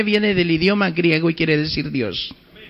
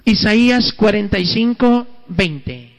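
slow, deliberate citation; preacher citing scripture; announcing the verse; slower than usual. Acted. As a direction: read the reference out slowly. Announces scripture reference slowly.

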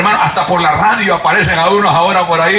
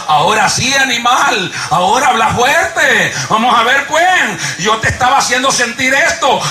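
taunting conscience; 5 semitones higher than usual. Retold or imitated. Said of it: "le estaba diciendo".

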